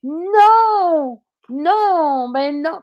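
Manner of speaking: a nervous backpedal to an enraged driver. Retold or imitated. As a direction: deny it fast and high, scared. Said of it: "Et là, je fais".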